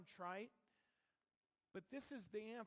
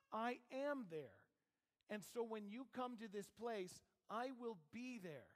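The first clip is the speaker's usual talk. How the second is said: God's voice; 3 semitones higher than usual. Acted. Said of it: "God is saying to you".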